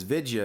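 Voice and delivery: "Vidya" as vid-juh, two syllables for video; mimicked odd accent. Host puzzles over where coach is from, mimicked accent on "Vidya". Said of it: "that's a diabolical accent".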